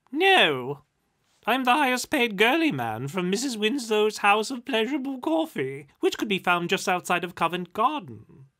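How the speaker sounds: high, loud mock boast; sarcastic spirit. A narrator's reading. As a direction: brag it out sarcastically.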